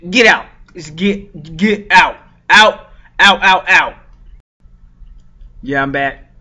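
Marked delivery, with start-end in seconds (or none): 0.1-4.0 shouting her out. Retold or imitated. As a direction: bark her out the door. Chasing her out of store.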